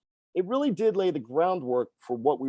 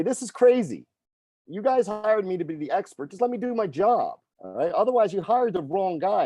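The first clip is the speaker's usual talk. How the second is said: a little heated; 4 semitones higher than usual. Retold or imitated. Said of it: "I actually got a little heated".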